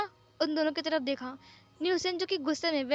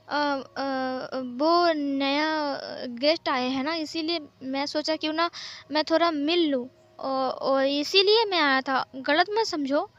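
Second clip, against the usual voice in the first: stammering, drawn-out fumbling for words; awkwardly acted, halting explanation; hesitant excuse; slower than usual. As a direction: stall with "uh" while inventing an excuse.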